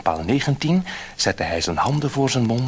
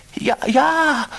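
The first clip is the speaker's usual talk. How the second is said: eager fisherman; 5 dB louder than usual. A narrator's reading. Fisherman answers the fish.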